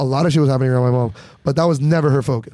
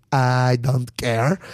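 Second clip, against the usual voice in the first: deadpan mom; 4 semitones lower, much slower than usual. Retold or imitated. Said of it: "And I'm like ... Mom".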